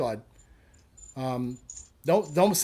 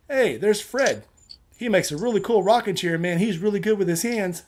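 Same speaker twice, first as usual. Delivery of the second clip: loud, higher mock greeting; mock cheerful hail; 5 semitones higher, 3 dB louder than usual. Joke teller voicing a passer-by, loud mock hail. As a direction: call out Fred's name like a fan. Imagined passer-by hailing Fred.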